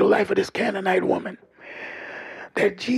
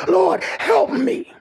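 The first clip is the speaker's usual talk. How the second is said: desperate cry; 6 semitones higher, much slower than usual. Acted. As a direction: stretch the plea out slowly. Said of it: "she comes crying out".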